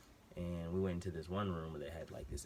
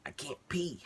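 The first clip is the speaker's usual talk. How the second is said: higher and louder, fed-up cry; exasperated outburst; 10 semitones higher, 5 dB louder than usual. Retold or imitated. Patient to the nurse, an exasperated high cry. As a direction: snap it out like you've said it all day.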